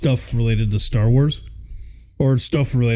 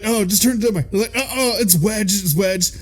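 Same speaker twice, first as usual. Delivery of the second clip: high put-on cartoon character voice; fussing through directions, pitched well up; mock struggle; 8 semitones higher than usual. Moving a sofa out of the compactor, mock struggle.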